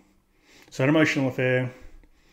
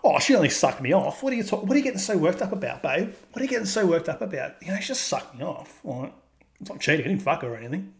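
put-on high defensive boyfriend voice; mocking cheating guy; 5 semitones higher than usual. Mock boyfriend to his upset babe, high and defensive. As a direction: brush off the girlfriend's anger. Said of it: "forty-seven percent of guys are like".

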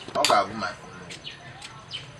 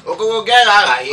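raised, higher voice, ordering someone off; angry dismissal; 4 semitones higher, 4 dB louder than usual. Acted. Patron orders Okoro out of the place, angrily. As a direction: drive them away with a raised voice. Quarrel, ordering drunkard away.

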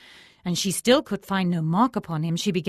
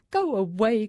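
groaning thief; 6 semitones higher, 5 dB louder than usual. A narrator's reading. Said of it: "groaned the thief".

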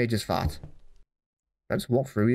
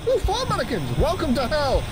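higher, hammed-up voice for the mannequins; mock spooky greeting; 8 semitones higher than usual. Gamer greeting mannequins, lightly hammed-up voice. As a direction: play the creepy host a touch.

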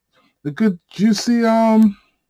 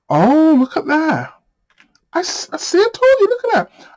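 titillated; 11 semitones higher than usual. Real, not acted. Reacting to juicy tarot cards.

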